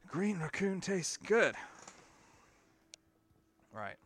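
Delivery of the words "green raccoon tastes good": higher singsong. Acted. Repeated higher.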